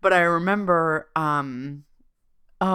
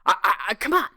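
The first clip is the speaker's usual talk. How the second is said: higher, whiny put-upon mom; mom's voice; 7 semitones higher, faster than usual. Retold or imitated. Mom complaining about the ruins, higher whiny voice. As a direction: play the grumbling mother who wants the gift shop. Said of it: "She's like".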